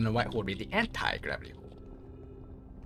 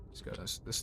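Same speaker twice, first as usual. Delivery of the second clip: whispering; 10 dB quieter than usual. Real, not acted. Muttering to self.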